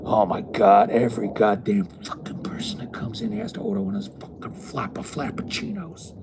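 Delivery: loud, high exasperated venting; fed up and exploding about frappuccinos; exasperated rant. Retold or imitated. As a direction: coworker venting loudly about customers. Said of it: "she'd go".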